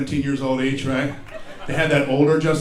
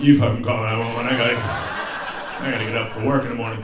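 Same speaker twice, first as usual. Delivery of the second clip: irritated wife; 3 semitones lower, faster than usual. Retold or imitated. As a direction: snap it at him and roll over. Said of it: "She brought me the phone".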